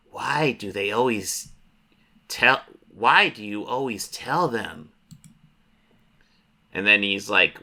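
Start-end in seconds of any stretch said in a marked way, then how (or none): 0.1-4.9 slow, drawn-out monster voice. Acted. Monster under the bed to little boy, slow creature voice. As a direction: draw the vowels out like a creature. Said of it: "the monster talks to him".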